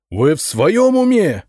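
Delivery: медленно и возмущённо, громче; отчитать с негодованием; гневно. A narrator's reading. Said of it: "взревел Зотов". (возмущённый начальник)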